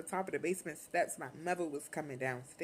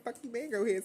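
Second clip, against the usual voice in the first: put-on higher, taunting teen voice; mocking sister voice; 6 semitones higher, 3 dB louder, faster than usual. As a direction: taunt her back, higher. God sister mocking back.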